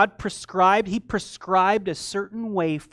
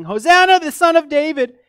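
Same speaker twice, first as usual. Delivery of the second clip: loud, high acclamation; crying out; 10 semitones higher, 12 dB louder than usual. Acted. Children praising in the temple, crying out loudly. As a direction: lift the voice suddenly and cry it out. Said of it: "crying out in the temple".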